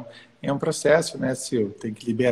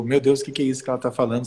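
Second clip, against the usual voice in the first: mock bewildered; faster than usual. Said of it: "soa um pouco".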